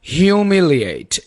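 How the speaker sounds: HUMILIATE drawn out slowly; "Humiliate" as hyu-mi-li-ate, unhurried; pronunciation demo. Shown as a demonstration. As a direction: model "Humiliate" slowly for learners. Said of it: "कैसे बोलना है?".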